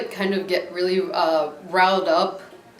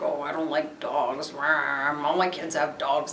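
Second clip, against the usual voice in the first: softer, slow, lightly grumbling stranger; a hint of a grumpy seatmate complaining; mild grumbling; 3 semitones lower, 3 dB quieter, slower than usual. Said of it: "was all grumbling".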